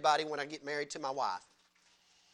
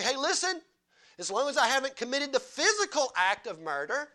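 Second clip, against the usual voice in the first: smug Pharisee; 4 semitones higher than usual. Retold or imitated. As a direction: brush off sin like a proud Pharisee. Preacher voices a smug Pharisee.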